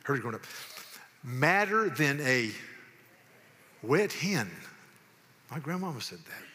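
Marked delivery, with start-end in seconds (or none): 1.2-4.5 slow, emphatic folksy saying; drawn-out Southern saying. Acted. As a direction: stretch each word out for the audience. Reciting Southern sayings as a test.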